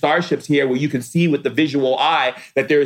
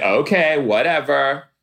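a hint of sulky dismissal, drawn out at the end; mildly imitating the friend's miffed okay; retold attitude. Friend brushing off his refusal to visit, mild huffy imitation. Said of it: "She's like".

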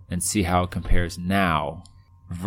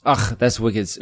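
put-on false start at a Boston accent; imitated Boston with a stray throaty "och"; mock Boston, cut off; 2 semitones higher than usual. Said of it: "in his Boston accent".

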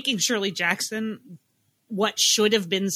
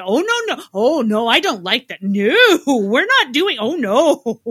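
louder, hammed-up frightened no-no-no; mock scared protest; 7 dB louder than usual. Retelling watching with Parker, a hammed-up scared protest. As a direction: reenact squirming at the scary scene. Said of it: "Parker and I did a lot of the".

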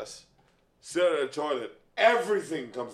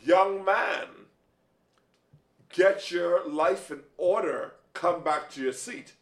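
stern mother; slower than usual. Retold or imitated. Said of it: "My mother goes".

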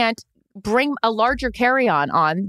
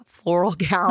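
laughing; 4 semitones lower, slower than usual. Shown as a demonstration. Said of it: "You heard me".

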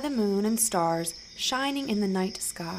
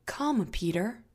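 gentle invitation. Acted. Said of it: "Jesus says".

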